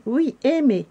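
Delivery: emphatic repeat on "aimé"; insistent. A narrator's reading. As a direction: press the word "aimé" firmly. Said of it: "insista le Père Noël en chef".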